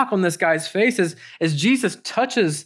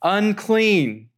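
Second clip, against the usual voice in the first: lightly acted leper's warning cry, pitched higher; calling out a warning; 4 semitones higher, much slower than usual. Leper warning the crowd off, calling out. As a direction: call it out in long, falling words. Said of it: "you hear someone walking and saying".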